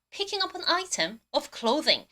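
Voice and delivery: very slow, careful English repeat; slow model reading again. Shown as a demonstration. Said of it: "발음 한 번 더".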